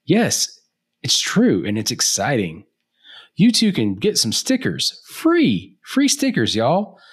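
high, bright sales pitch; infomercial voice. Acted. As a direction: sell it like a TV ad. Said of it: "trying to do, like, the infomercial thing".

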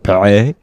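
Perrier with a guttural French R at the back of the throat; French throaty R. Shown as a demonstration. Mocking French speech, throaty French Perrier. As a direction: Perrier as if gagging on the R. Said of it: "It's like you're trying to throw up".

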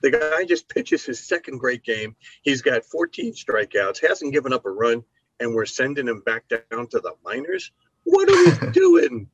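high, building to a shouted question; incredulous fan rant ending in a yell; Ryan's exasperated rant. Retold or imitated. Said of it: "Ryan yesterday going".

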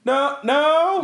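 high, loud insistent denial; emphatic no. Retold or imitated. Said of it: "they were like".

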